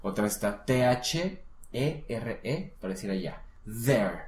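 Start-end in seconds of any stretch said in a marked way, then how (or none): 3.8-4.2 "There" with the tongue tip out between the teeth; teacher modelling the TH in "There". Shown as a demonstration. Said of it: "sale la lengua un poquito porque es T H".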